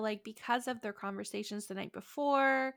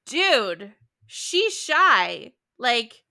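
louder, laughing incredulous scolding; mock rebuke; 5 semitones higher, 10 dB louder than usual. Imitating Lizzie scolding Darcy about Jane, laughing. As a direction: scold him through a laugh. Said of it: "she's just like".

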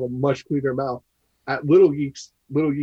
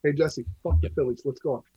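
muffled, mic too far away. Real, not acted. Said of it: "like, muffled".

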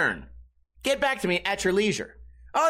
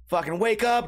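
normal talking voice

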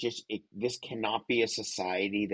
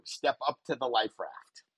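higher, grand speech-making voice; presidential address; 7 semitones higher than usual. Pretend. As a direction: deliver it like a rousing keynote line. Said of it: "there's a line that's important for you".

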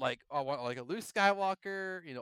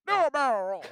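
higher, louder Peppy impression; 10 semitones higher, 8 dB louder than usual. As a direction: call it out like old Peppy. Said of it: "Peppy's voice".

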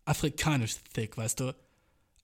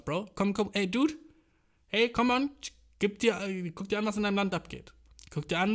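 lecturing news voice; 4 semitones higher than usual. Retold or imitated. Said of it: "sagt wieder so".

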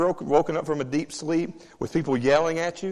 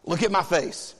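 stern parent. Retold or imitated. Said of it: "we have to look at her and go".

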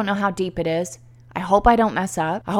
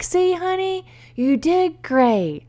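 proud husband; 9 semitones higher, slower than usual. Retold or imitated. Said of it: "And he's like".

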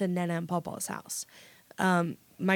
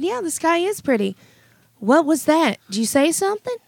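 put-on high, loud old lady voice; imitating grandma; 8 semitones higher, 6 dB louder than usual. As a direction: shout it like a deaf old grandma. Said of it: "look at you and say".

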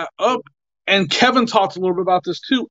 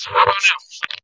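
tin can sound. Real, not acted. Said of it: "still bad".

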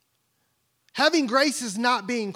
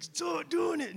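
mock bossy son; 7 semitones higher, 6 dB quieter, slower than usual. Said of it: "he's like this".

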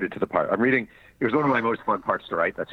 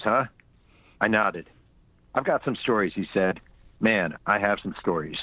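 reading his book aloud; steady audiobook narration. Acted.

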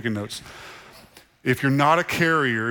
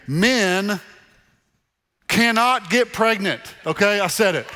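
emphatic mock-bold declaration; 7 semitones higher than usual. Real, not acted. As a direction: proclaim it like a bold confession. Joking bold declaration to congregation.

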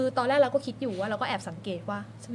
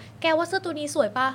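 lightly acted friend, pitched higher; friend asking opinion; 6 semitones higher than usual. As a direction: play a friend fishing for comments. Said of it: "เหมือนเวลาเพื่อนขอคอมเมนต์แล้วถามว่า". (สวมบทเพื่อนขอความเห็น เสียงสูงขึ้นนิด)

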